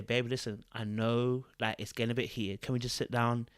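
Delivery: softly, gently calming a partner down. Shown as a demonstration. Showing women how to calm a heated man, softly. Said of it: "you calm the voice".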